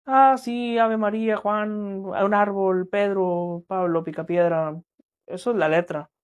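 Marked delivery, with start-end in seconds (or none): 0.1-4.8 mock reciting lyrics. Shown as a demonstration. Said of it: "De letra".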